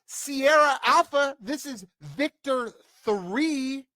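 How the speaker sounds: high, slow, hammed-up call sign; military radio call. MP radioing base, mock official call. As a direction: play an MP calling in, drawn out.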